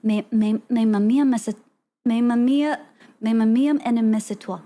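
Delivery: practising an attempted French accent; rough French accent, trying the phrase out. Shown as a demonstration. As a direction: repeat it in careful learner's French. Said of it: "but, like, with French accent".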